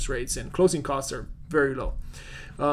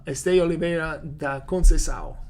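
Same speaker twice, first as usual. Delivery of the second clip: Portuguese accent; 4 dB louder than usual. Shown as a demonstration. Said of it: "my accent right there".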